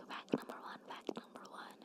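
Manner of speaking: faint airy whisper, fading away. Shown as a demonstration. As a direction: breathe the words in a hush. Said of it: "it comes much easier to me when I'm whispering".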